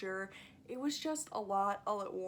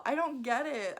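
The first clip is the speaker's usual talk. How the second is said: loud exasperated I don't get it; louder, throwing up her hands; 4 semitones higher, 4 dB louder than usual. Real, not acted. Vlogger venting at book snobs, exasperated and louder. Repeated, emphatic then flat.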